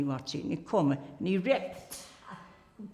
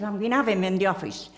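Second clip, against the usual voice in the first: worked up; 4 dB louder than usual. Retold or imitated. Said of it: "he was all worked up".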